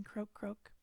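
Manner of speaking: whispered croaking frog. Pretend. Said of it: "I sound like I'm a frog".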